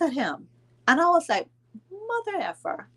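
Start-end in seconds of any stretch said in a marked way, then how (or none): 1.9-2.9 high, strained mock curse under breath; mild mock outburst. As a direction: hiss the curse in disbelief. Angry retort at wake.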